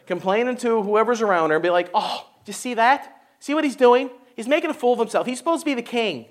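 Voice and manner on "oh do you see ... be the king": a hint of a disapproving wife, softer; lightly voiced gossiping wife. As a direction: complain under the breath to a neighbour. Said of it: "That's a pretty good impersonation right there".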